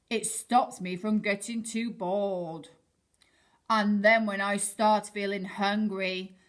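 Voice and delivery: a touch of a cocky swordfish; boastful swordfish. Acted. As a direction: brag about your sword.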